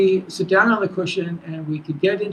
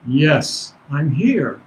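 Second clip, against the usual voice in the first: lightly voiced master, a little lower; master's answering voice; 4 semitones lower, much slower than usual. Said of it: "in the master's voice".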